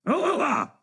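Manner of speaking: high monkey hoots; monkey noises. Retold or imitated. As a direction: hoot like a monkey. Imitating monkeys at the zoo.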